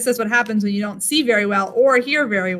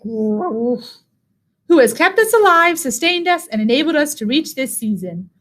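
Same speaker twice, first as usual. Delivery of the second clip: muttered growl; 3 semitones higher than usual. Acted. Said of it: "Old Bear muttered and growled".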